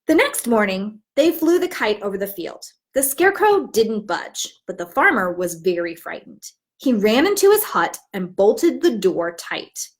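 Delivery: put-on warm, even picture-book narration for young listeners; storybook read-aloud. Teacher reads the story aloud to her class, storytelling voice.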